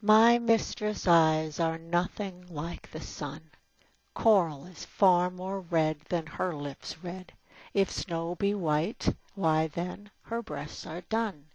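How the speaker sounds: even iambic reading; poem reading. Shown as a demonstration. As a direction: read the line in a steady rhythm. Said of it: "reading through this first one again".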